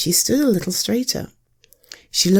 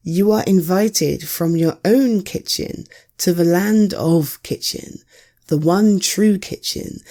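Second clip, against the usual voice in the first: grand turtle herald. Acted. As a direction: proclaim the invitation like a royal messenger. Turtle delivers the invitation.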